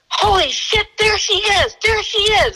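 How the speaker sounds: imitating his partner's high-pitched excitement; high, urgent re-enactment of a sudden sighting; excited outburst. Partner spotting the wanted girl from the car, excited.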